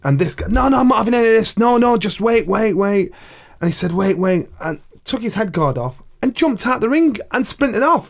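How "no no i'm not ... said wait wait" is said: high, fast, flustered refusal; panicked quitter. Retold or imitated. Scared opponent backing out, high and rushed. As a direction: babble your way out of the fight.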